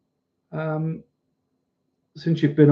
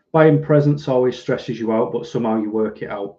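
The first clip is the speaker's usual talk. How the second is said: ordinary talk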